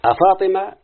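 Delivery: reciting the vocative. Shown as a demonstration. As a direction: call the name out as in the verse. Quoting the vocative in verse.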